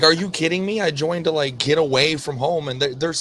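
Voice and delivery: retold annoyed complaint. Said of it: "he was mad".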